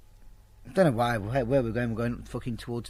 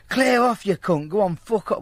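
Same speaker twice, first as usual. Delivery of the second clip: higher, louder yell of "Clear off"; mock yell; 5 semitones higher, 4 dB louder than usual. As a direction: bark it out like a bouncer. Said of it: "Well, not like that".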